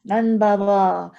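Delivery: slow, loud cry for help to his parents; child shouting out to Nand Baba and Yashoda; loud, drawn-out alarm call. Acted. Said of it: "As soon as he shouts out".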